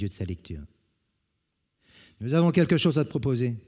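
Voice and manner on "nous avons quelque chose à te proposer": put-on quick, higher young brigand voice; eager brigand. Young brigands to their old chief, fast and eager. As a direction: rush out the proposal, keen.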